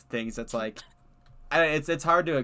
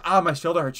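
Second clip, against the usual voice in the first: louder, hammed-up whine of pain; mock loud complaint; 6 semitones higher, 7 dB louder than usual. Retelling the coworker story, a loud mock complaint. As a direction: overplay the sore shoulder. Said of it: "I was like".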